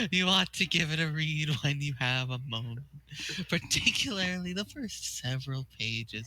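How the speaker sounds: lightly voiced sweet grandma; a hint of a doting grandmother; Nana Sprite voice. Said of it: "I think this is the same Nana Sprite voice".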